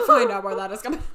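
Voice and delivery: loud mock monotone. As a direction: imitate a done-with-it order, loudly. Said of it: "in the most monotone voice".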